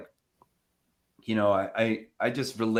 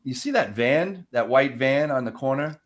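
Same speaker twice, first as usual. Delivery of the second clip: creepy joke reply; 3 semitones higher than usual. Pretend. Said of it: "I think it's really funny".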